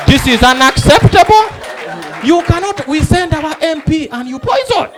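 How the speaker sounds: outraged witness. Acted. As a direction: rail like an aggrieved citizen on TV. Outraged witness ranting on camera.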